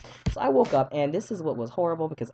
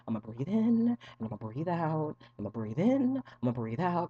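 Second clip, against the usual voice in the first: woosah calming; 4 dB quieter than usual. Retold or imitated. Patient trying a teacher's trick while freaking out, mock calming. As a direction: talk yourself down with mock serenity. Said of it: "told me to do that woosah stuff".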